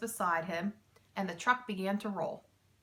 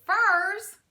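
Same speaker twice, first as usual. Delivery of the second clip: much higher and louder, laughter breaking in; higher, laughing disbelief; 11 semitones higher, 9 dB louder than usual. A narrator's reading. Mac cracks up at the thieves, laughing cry. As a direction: squeal it on the edge of laughter. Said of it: "Mac started to laugh".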